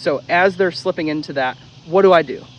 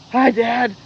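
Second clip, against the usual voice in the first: happy dog voice; 8 semitones higher, 4 dB louder than usual. Retold or imitated.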